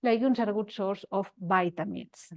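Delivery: legumes destacada como foco; énfasis en legumes. Shown as a demonstration. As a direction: resalta legumes y deja caer el resto. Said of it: "este énfasis que nosotros damos". (énfasis en legumes)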